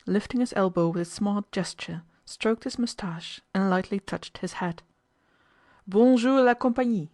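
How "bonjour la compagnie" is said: high, loud, cheery French hello; gay greeting. A narrator's reading. French officer greeting a silent household, gaily. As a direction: call a gay greeting to the room. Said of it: "said he gaily".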